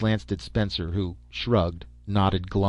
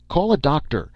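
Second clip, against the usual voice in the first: higher and louder urgent call; barked order; 7 semitones higher, 6 dB louder than usual. A narrator's reading. Stetson calling for a doctor after Orne collapses, loud bark. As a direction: bark for help across the room. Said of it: "Stetson barked".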